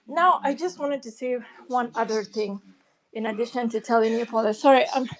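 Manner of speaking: slightly out of breath after running; breathless from running, still catching breath. Real, not acted. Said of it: "I'm kinda out of breath 'cause I was running".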